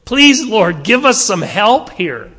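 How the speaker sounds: a loud cry of please Lord; pleading prayer. Pretend. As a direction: beg God for help, out loud. Voicing humanity's plea to God.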